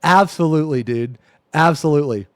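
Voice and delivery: loud, hyped-up agreement; excited shout. Real, not acted. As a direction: shout it out, totally sold.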